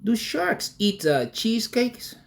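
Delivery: high, slow puzzled question; Uncle T. Retold or imitated. Uncle quizzes his shark nephew, high and slow. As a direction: ask it slowly in a high voice, imitating an uncle. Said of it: "And he goes".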